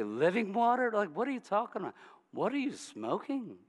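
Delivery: incredulous, quick mocking questions; sarcastic. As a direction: scoff at the crazy idea. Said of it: "She's got some sarcasm".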